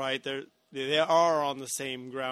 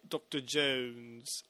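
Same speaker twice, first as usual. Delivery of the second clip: put-on British-tinged Russian accent; much slower than usual. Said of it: "every once in a while she would say".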